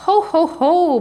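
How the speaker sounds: booming laugh. A narrator's reading. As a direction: let the laugh boom out. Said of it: "boomed the dragon".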